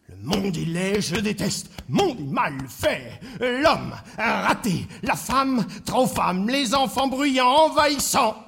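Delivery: slow grumbling list that climbs in pitch; drawn-out litany of grievances, rising; gloomy griping. Acted. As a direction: start subdued, build to exasperated complaint. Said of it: "les pensées noires ont repris le dessus".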